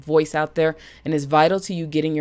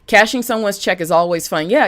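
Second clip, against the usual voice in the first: ordinary talk, nothing marked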